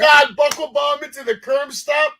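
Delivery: high, loud surprised outburst; excited shout. Real, not acted. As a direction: shout it in amazement. Surprised at a wrestling move.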